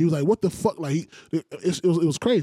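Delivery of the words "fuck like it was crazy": ordinary talk, nothing marked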